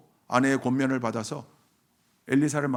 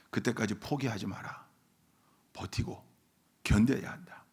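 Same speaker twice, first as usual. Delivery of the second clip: normal talking voice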